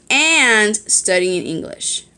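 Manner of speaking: "and" stretched out and emphasized; stress on AND. Shown as a demonstration. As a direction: hold and punch the word "and". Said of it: "Why I put so much emphasis on the word".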